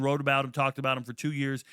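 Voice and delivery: ordinary talk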